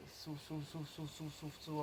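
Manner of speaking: soft, rhythmic repeated cue under the breath; hushed breathing cue. Shown as a demonstration. Coach talking students through a long exhale, hushed and repetitive. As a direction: softly urge the breath out, word after word.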